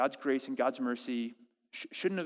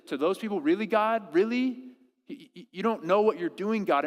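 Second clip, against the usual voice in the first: mock incredulous; 3 semitones higher than usual. Voicing us challenging God.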